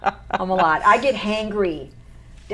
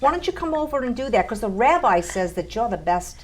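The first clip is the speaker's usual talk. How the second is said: lightly done Brooklyn Jewish neighbor, raised pitch; hint of a Yiddish-flavored Brooklyn accent, quick; 4 semitones higher than usual. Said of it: "Do the Jewish voice".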